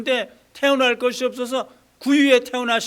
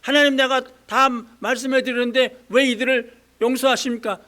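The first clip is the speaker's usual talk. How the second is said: angry complaint; 2 semitones higher, 4 dB louder than usual. Acted. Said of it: "요나가 또 화가 났어요".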